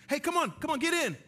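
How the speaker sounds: loud high shout, beckoning; calling out. Pretend. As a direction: wave them in with a loud call. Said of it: "I would say".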